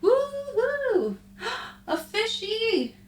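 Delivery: very high delighted cheer; high cutesy glee; excited squeal. Real, not acted. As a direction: squeal over the fishy. Excited over fish in game.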